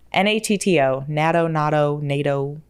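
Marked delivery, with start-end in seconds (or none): 1.1-2.0 natto said NAT-oh, then NAH-toh; vary the vowel in each natto; pronunciation guesses. Shown as a demonstration. Vlogger unsure of the word, natto as NAT-oh, NAH-toh. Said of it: "don't know how to pronounce". 2.0-2.6 nato said NAY-toh; last pronunciation guess. Shown as a demonstration. Vlogger gives up on the word, nato as NAY-toh. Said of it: "whatever it is".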